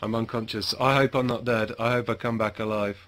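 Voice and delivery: quiet aside. Real, not acted. Knocked out in the game, quiet low murmur to himself.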